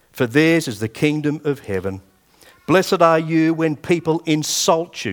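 slow, deliberate Bible reading; measured pulpit reading, drawn-out stressed words; scripture reading. Acted. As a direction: read each phrase out weightily, with pauses. Reads scripture aloud to the congregation.

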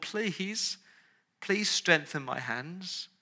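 soft, slow plea; a quiet earnest please; soft pleading prayer. Acted. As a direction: beg softly for strength. End of a voiced desperate prayer.

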